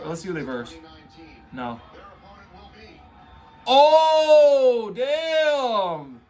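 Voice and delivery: ordinary talk, nothing marked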